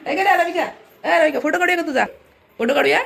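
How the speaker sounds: high, laughing sing-song to the bird; cooing at pet. Real, not acted. Owner coos at pet bird Anamika, high sing-song. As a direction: coax the little bird sweetly.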